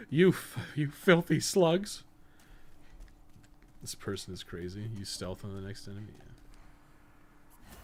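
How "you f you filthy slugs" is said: loud, slow, hammed-up yell at the slugs; mock yell. Player mock-yells at slug enemies in game, loud drawn-out shout. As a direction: bellow it like a cranky hero swatting pests.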